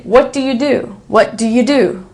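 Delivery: "What do you" run together, second "do" stressed; "What do you do?" with the first "do" reduced; reduced question. Shown as a demonstration. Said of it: "So we say".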